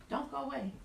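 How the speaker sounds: called from a distance. Real, not acted. Calling while walking off camera.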